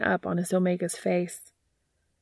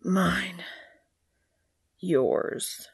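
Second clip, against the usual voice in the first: firm possessive. A narrator's reading. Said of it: "Castiel agrees firmly".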